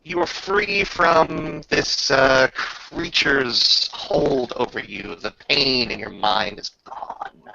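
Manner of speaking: slow, solemn game master pronouncement; solemn release. Acted. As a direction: free her gently and slowly. GM addresses freed Bettina.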